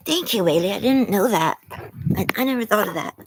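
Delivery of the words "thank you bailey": taken aback and grateful; gasp of thanks. Real, not acted. Thanking a viewer after a gasp.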